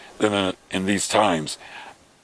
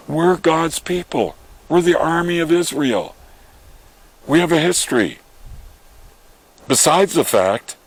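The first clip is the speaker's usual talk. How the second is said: put-on higher, fervent young voice proclaiming; bold declaration; 5 semitones higher than usual. Shepherd boy David boldly answers King Saul, high and fervent. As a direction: speak up like a fearless shepherd boy.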